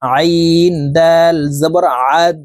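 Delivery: "আইন" and "আদ" slowly, squeezed from mid-throat; throaty ain. Shown as a demonstration. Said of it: "হলকের মধ্যখান থেকে হবে". ("আইন", "আদ": হলকের মধ্যখান থেকে চাপ দিয়ে, ধীরে টেনে)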